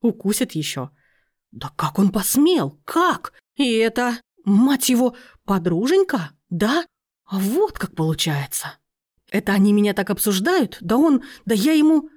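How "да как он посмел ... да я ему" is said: spluttering rage, higher and louder; furious outburst. Acted. Aunt, hearing the recording, furious spluttering. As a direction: choke on fury at the betrayal. Aunt hears herself insulted.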